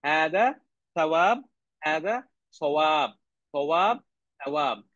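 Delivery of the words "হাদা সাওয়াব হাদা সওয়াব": "সাওয়াব" said slowly with a long first vowel; teacher models "সাওয়াব", slow and deliberate; slow careful pronunciation. Shown as a demonstration. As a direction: draw out "হাদা সাওয়াব" for the students. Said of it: "সাওয়াব, সওয়াব।".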